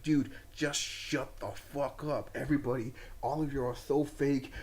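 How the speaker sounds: a mild tired brush-off; weary, not shouting. Retold or imitated. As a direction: tell them off without raising your voice. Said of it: "doesn't ... gets up ... and shouts".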